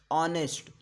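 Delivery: ऑनेस्ट said with an open vowel at the start and no h; a clean model of ऑनेस्ट with the h dropped; silent h pronunciation. Shown as a demonstration. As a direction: say ऑनेस्ट, not हॉनेस्ट. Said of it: "हॉनेस्ट नहीं बोल रहे हैं".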